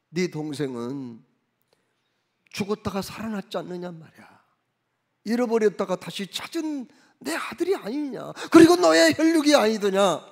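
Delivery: a father's plea that breaks into tears; father begging his angry son, voice breaking; pleading father. Retold or imitated.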